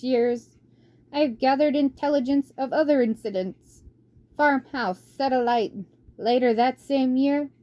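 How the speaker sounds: put-on old mouse reading. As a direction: read the record like a fussy old archivist.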